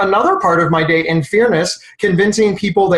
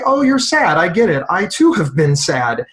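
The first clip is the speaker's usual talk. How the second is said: acted empathy. Peer supporter to someone sad, acted empathetic recognition. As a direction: act out sympathy, slowing down to share it. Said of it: "We say".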